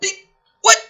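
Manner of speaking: high incredulous what with a rising end; baffled what. Real, not acted. Commentator stunned by the plot twist, high and rising. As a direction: sound floored by the twist.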